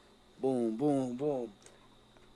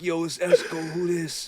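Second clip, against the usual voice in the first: lightly mimicked a rapper, a touch louder; mimicking a rapper; 5 dB louder than usual. The young speaker mimics a rapper answering the phone, lightly voiced New York. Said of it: "And I'd mimic".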